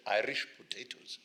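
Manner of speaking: lightly voiced Ugandan boy saying "Irish potatoes" with a rising end; boy's voice. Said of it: "He said".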